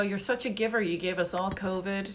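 ordinary talk, nothing marked

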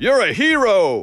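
barked, big dog voice. Reading a book aloud and doing the voices, a barking Great Dane voice. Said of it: "one of the Great Danes barked".

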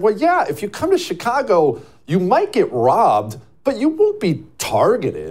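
acted, huffy, affronted, indignant tone, swooping in pitch. Retelling a woman's reply to a man's complaint about Chicago, mock indignant. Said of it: "she got all indignant".

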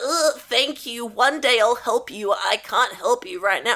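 voice of an ugly, putrid, foul creature. Retelling what the creature says after being freed: Bok the Seamster voice. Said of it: "And then he's like".

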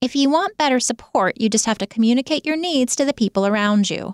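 mock, sarcastic, snarky, sneering voice. Quoting advice that somebody always gives about support, mock-snarky quoting voice. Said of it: "I've tried to say that several times without my snarky voice".

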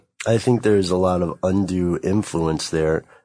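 ordinary delivery

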